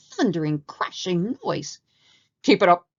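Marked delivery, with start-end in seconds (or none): 2.4-2.9 booming parade-ground bellow. A narrator's reading. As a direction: bark the drill call across the jungle. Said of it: "a deep voice bellowed".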